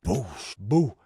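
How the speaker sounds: imitated impact noises; punch sound effects. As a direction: voice the blows landing.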